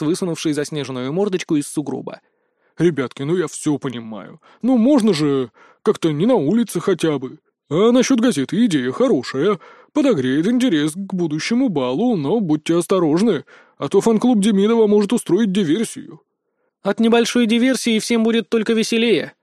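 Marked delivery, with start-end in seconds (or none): 2.8-16.2 scribe creature. Acted. The scribe lectures kindly. 16.8-19.3 mean giggle. Acted. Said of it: "злобно хихикнула Рита".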